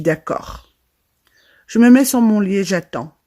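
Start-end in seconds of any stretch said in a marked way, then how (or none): 0.0-0.7 whispered narration. Acted. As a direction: whisper it so the uncles won't hear. Quietly agreeing on the phone.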